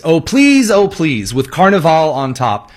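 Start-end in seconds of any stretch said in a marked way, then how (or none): 0.0-1.3 high, pleading whine, hammed up; mock begging. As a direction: play a groveling beggar for a laugh. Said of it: "begged the President of the United States".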